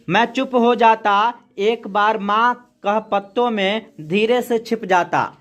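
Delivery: slow, measured poem reading; poem recitation. Acted. Teacher reading a poem to the class, slow recitation. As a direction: recite the verse slowly for the class.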